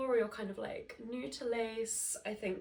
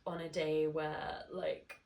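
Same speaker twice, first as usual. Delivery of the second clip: blocked nose from hay fever; stuffy, nasal hay fever voice; 3 semitones lower than usual. Real, not acted. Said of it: "my gorgeous nasally voice".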